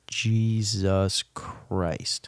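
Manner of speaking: slow stunned whisper; horrified whisper. Real, not acted. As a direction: breathe it out in disbelief.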